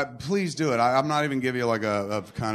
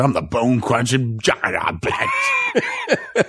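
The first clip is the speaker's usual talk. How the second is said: mock shout; 2 semitones lower, much slower than usual. Shouting the catchphrase.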